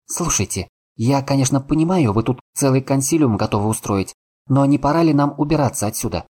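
high, tense and jittery; urging to leave, on edge; nervous, anxious. Acted. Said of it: "Лиза заметно нервничает".

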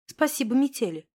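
usual speaking voice

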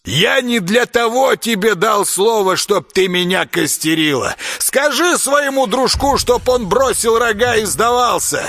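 high villain's command; lightly voiced commanding villain; ordering. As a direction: lay down terms coldly. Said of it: "приказал".

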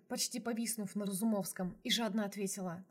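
ordinary delivery

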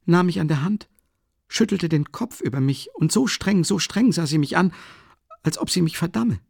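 hohe, aufgeregte Stimme einer ängstlichen Mutter; besorgte Mutter. A narrator's reading. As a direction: eine nervöse alte Mutter, etwas lauter. Mother tells her dream. (Mutter sorgt sich um den Sohn, hoch und aufgeregt)

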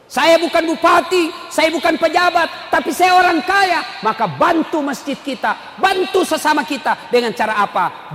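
high, forceful sermon voice; rousing pulpit call to help; impassioned preaching. Real, not acted. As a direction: declare it loudly to the congregation.

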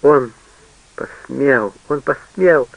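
put-on a girl shocked at her lover's betrayal; outraged disbelief. A narrator's reading. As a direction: gasp it out, betrayed.

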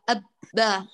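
«أب» closed sharply on the ب; «أب» short, the lips shut on ب; clipped ab. Shown as a demonstration. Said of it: "كذلك في الباء،".

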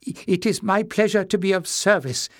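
put-on high, mumbling old man's voice; frail old man, sorry and flustered; old Joseph.

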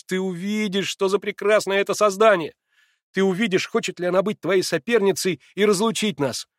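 light up with the idea; rapturous. A narrator's reading. Alyosha delighted telling Natasha about Katya. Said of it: "вскричал он вдруг с восторгом".

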